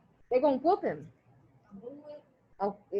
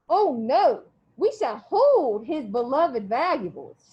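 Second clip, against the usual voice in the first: slow, louder, lofty mocking tone; louder haughty sneer, drawn out; 4 dB louder, much slower than usual. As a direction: lord it over the boy, slowly. Missus Amos mocking the boy.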